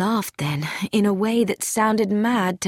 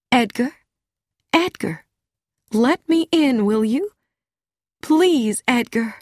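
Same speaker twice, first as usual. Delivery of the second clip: higher-pitched, gentle coaxing; gentle calling; 5 semitones higher than usual. A narrator's reading. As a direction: coax him tenderly through the door. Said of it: "she called very softly".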